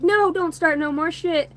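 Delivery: high, drawn-out protest; retold protest. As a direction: call the kids off, stretching it out. Retold plea to the kids.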